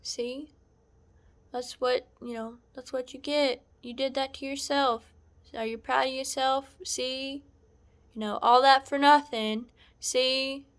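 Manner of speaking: retold I-told-you-so jeer; mocking gloat. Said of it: "And was laughing about it".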